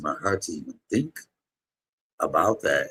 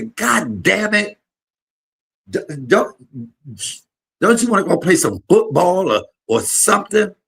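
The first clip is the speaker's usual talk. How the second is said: grandma's scolding; 12 semitones higher, 6 dB louder than usual. Retold or imitated. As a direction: shriek like a scandalised grandmother.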